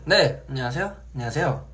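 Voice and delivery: 긴장해서 떨리는 목소리로 인사; 전화 받으며 잔뜩 긴장한 듯; nervous phone voice. Shown as a demonstration. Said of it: "전화만 받으면 목이 엄청 떨리는 거야". (전화 받을 때 긴장한 목소리)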